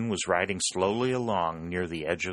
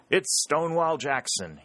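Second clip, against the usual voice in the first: roared back; 8 semitones higher than usual. A narrator's reading. Harry answering the Yankee picket, proud roar. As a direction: roar the name back across the river. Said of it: "Harry roared back".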